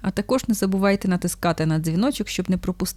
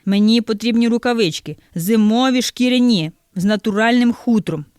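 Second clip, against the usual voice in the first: louder, insistent customer; raised voice; 3 semitones higher, 4 dB louder than usual. Acted. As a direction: demand the gloves with a raised voice. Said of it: "підвищеним голосом каже". (підвищеним голосом, роздратовано)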